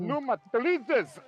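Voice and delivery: put-on teaching the kids broad Scottish, slow and loud; exaggerated Scottish accent. Shown as a demonstration. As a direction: drag it out in a hammed-up Scottish voice. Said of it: "the missus is trying to do it".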